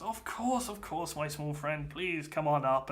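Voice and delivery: a hearty ship captain calling down; welcoming captain. Acted. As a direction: greet the small friend heartily.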